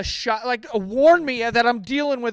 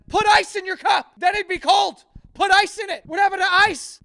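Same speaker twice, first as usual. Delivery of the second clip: much higher, louder sarcastic squeal; mocking high retort; 12 semitones higher, 5 dB louder than usual. Mocking a customer about warm Pepsi, high sarcastic squeal. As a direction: shriek the obvious fix at the caller.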